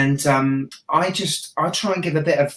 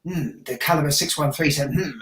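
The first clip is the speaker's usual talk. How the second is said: imitating serious reviewers; 4 dB quieter than usual. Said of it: "then they get to YouTube".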